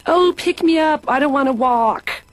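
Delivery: put-on passive-aggressive baby. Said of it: "passive-aggressive".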